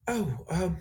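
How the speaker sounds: Galazar faltering at a strange sight, confused; lightly voiced hesitant, confused character. Game master voicing a startled Galazar, mildly confused. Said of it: "and he looks confused".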